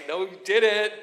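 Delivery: high, loud mock outrage; scandalized delight. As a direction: react like a thrilled onlooker. Retold scandalized onlooker reaction.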